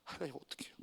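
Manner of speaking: very soft, deflated plea to God; a crushed, barely voiced prayer; dejected prayer. Pastor retelling his despair in the dark sanctuary, very soft and crushed. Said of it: "완전히 풀이 푹 죽어서 들어가요".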